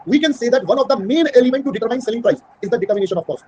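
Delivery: very slow, word by word dictation; dictating a definition to students. Shown as a demonstration. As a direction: spell it out slowly for notes. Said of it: "teacher dictates definition slowly".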